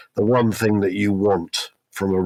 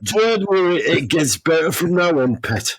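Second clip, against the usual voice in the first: hammed-up Geordie, pitched higher at the start; terrible Geordie accent; 7 semitones higher than usual. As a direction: put on a bad Geordie accent, jokingly. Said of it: "terrible accent".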